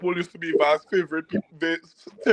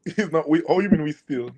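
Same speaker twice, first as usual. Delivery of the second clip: laughing; 4 semitones higher than usual. Real, not acted. Teasing rival fan with laugh.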